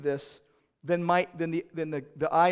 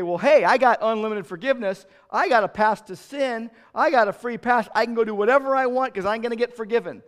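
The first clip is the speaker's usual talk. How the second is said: slightly louder, cocky mock believer; mock presumptuous believer; 3 semitones higher, 6 dB louder than usual. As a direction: lightly act someone boasting of a free pass. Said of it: "Unbelievers talk like that".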